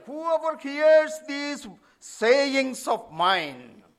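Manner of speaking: verse read slow, each word weighed; slow emphatic quote. Shown as a demonstration. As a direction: read the verse out slowly and solemnly. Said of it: "In the original Greek word order".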